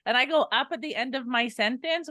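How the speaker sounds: statement turned into a question, rising on SENTENCE; questioning uptalk. Shown as a demonstration. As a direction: go up at the end on "sentence". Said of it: "maybe creating a question".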